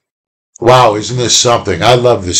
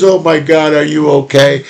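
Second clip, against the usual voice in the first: mildly acted parental alarm, slightly raised pitch; worried parent; 4 semitones higher than usual. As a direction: fuss lightly over a fallen child. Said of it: "picks up the kid and goes".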